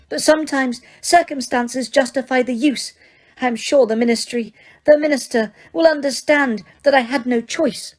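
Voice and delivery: high, firm enraged witch; clipped fury held in check; Umbridge voice. Acted.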